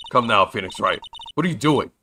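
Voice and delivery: pushy character voice. Acted. Sidekick coaxing the attorney through the gate, teasing and loud. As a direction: egg him on into the garden. Voicing game character urging entry.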